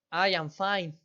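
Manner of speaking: a touch of a smile in the voice, lightly upbeat; teacher shows a friendly reply with a smile. Shown as a demonstration. Teacher demonstrating a smiling answer, lightly cheerful. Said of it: "¿Sí percibieron en qué tono di las respuestas?".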